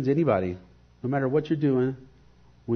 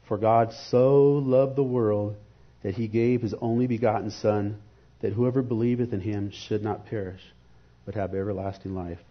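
scripture reading. Acted. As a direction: lean into each word as you read. Reads John 3:16 aloud.

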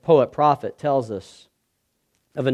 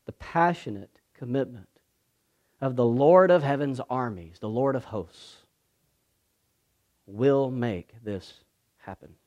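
ordinary talk

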